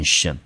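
tion said alone as an unstressed "shun"; syllable demo. Shown as a demonstration. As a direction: model tion as "shun", by itself. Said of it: "第二个念tion". (单独示范tion,念轻音shun)

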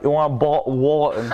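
mock British accent, water with a dropped t; a jokey take on a British accent. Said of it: "British people be like".

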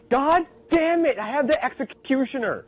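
high, loud laughing curse; frustrated yell. Real, not acted. Frustrated outburst during game.

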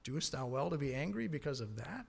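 quiet God. Acted. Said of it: "and God says".

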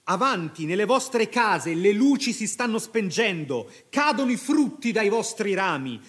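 captain rallying his men against the sorcery, loud and urgent; rousing battle cry. Acted. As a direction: rouse the fleeing army with fire. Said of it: "gridò Marco".

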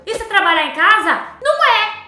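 loud indignant outburst; outraged. Real, not acted. Gamer outraged the job isn't home work, loud indignant shout. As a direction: shout it in disbelief.

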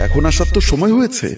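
agitated. A narrator's reading. Babu to Eva, who came late at night, agitated. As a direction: burst out, worked up at the late arrival. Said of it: "বাবু উত্তেজিত হয়ে বলল".

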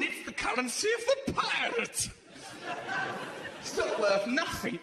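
mildly hammed-up childish bickering over treasure; childlike arguing. Child's mentality, debating what new coins are worth, childlike arguing. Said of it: "recede to the mentality of a child".

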